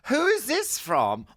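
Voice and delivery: high, loud drawn-out exclamation; Michael McIntyre. Retold or imitated. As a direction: call out the name in amazement, stretched. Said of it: "and then Michael goes".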